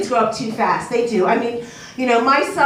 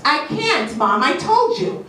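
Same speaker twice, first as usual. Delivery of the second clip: put-on whiny child; 4 semitones higher than usual. Son whining excuses to mom.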